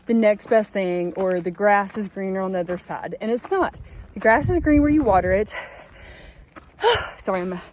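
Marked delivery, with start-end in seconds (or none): 4.1-7.6 out of breath. Real, not acted. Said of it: "out of breath this climb".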